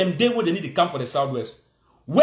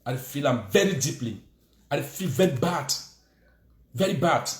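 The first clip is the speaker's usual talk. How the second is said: mocking Prime Minister; 6 semitones lower, 4 dB quieter than usual.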